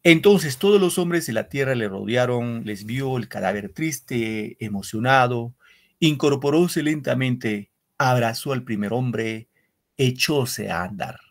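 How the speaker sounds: measured, solemn reading of verse; poem recital. Acted. Teacher reading a war poem to the class, solemn recital.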